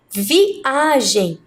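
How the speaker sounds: "Viagem" split after "Vi", with the A drawn out; stress on A. Shown as a demonstration. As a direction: sound out "Viagem" slowly to show its strong A. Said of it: "conseguiram perceber que é a letra A". (sílaba tônica A destacada em "Viagem")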